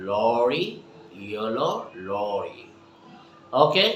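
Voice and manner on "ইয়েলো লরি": quick, dropped-voice finish; fast soft drill. Shown as a demonstration. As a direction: rush it and let it fade. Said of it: "So what I say".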